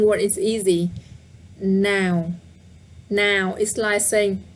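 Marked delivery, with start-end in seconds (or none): 1.6-3.5 Now with a falling tone. Shown as a demonstration. Teacher modelling the falling tone on Now. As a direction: drop Now down. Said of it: "but with the down tone".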